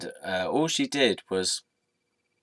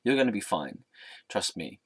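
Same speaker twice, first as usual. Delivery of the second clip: certain reassurance. Retold or imitated. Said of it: "had a sense of certainty".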